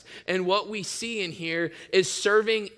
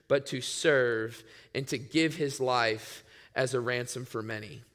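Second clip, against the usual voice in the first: scripture reading; 3 semitones lower than usual. Acted. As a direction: read the passage solemnly and unhurried. Reads scripture aloud.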